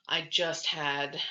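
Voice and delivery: breathless from talking fast; running out of breath. Real, not acted. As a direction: talk until out of air. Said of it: "I'm talking so fast that I'm running out of breath".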